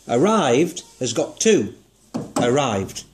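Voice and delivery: arrived said slowly, split into its two syllables; syllable demo. Shown as a demonstration. Teacher demonstrating syllables to pupil. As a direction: spell out the two beats of arrived. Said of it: "two what we call syllables".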